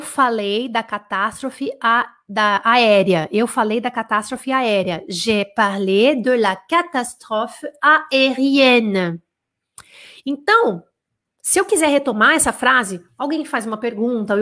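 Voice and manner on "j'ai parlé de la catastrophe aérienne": "J'ai parlé de la catastrophe aérienne" drawn out, each syllable clear; very slow "aérienne" with open vowels; slow French model. Shown as a demonstration. Teacher repeats the French line for students, very slowly. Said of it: "teacher models French sentence".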